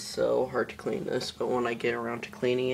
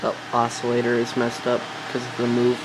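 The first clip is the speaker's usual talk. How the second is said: raised voice over fan noise; 12 dB louder than usual. Real, not acted. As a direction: project over the fan's roar. Talking over a running fan.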